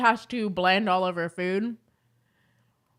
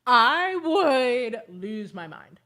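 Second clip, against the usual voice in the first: slow, laughing through the words; 3 dB louder, much slower than usual. Real, not acted. Laughing as she repeats her rant, slow and giggly. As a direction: say it while still laughing.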